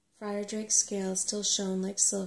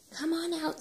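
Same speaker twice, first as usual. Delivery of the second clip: calling out; 9 semitones higher than usual. A narrator's reading. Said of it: "said Sorrel".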